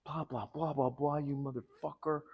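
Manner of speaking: half-hearted impression of her cursing; mock insults. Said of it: "she started calling me names".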